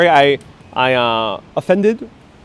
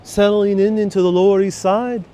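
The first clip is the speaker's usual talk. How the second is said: higher-pitched, lilting Irish brogue; 5 semitones higher than usual. Acted. Streamer imagining arriving from Ireland, Irish brogue. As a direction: put on a terrible Irish accent. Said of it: "start speaking the Irish brogue".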